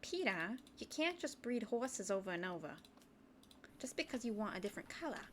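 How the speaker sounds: lightly imitated cartoon wife; a second, milder go at the nagging wife; Lois impression. Wife scolding her husband about breeding horses, light impression. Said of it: "That was my worst Lois impression".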